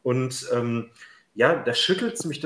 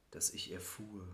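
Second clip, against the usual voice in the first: breathy poetic whisper; 4 semitones lower, 16 dB quieter than usual. Acted. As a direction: whisper it like a secret. Whispered lines in poem.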